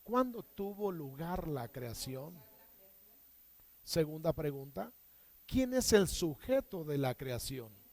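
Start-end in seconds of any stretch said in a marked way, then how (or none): 0.0-2.3 1 slow model question. Shown as a demonstration. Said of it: "¿Repites conmigo?".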